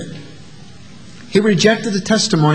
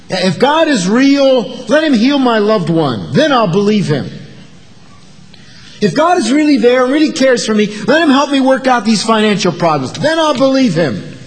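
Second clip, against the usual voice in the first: demanding doubter; 3 semitones higher than usual. Retold or imitated. A doubter bargaining with God, insistent and higher. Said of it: "we see it today".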